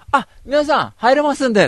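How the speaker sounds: high, loud call to the crowd behind; cocky announcement. Retold or imitated. Host retelling how he got cocky, calling high and loud to the crowd. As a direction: show off, calling back to the line. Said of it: "俺がさ、調子乗ってさ".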